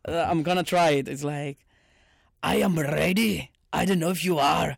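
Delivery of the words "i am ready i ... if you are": Scottish rolled R's; Scottish accent. Shown as a demonstration. Trying out Scottish R's for the co-host, Scottish. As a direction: have a go at Scottish, rolling the R. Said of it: "do a bit of the Scottish R's".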